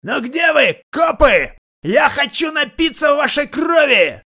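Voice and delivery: very high, slow, hoarse bellow; hoarse shout. A narrator's reading. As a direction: howl it like a bloodthirsty madman. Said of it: "чей-то хриплый голос прокричал". (хриплый протяжный крик, очень высоко)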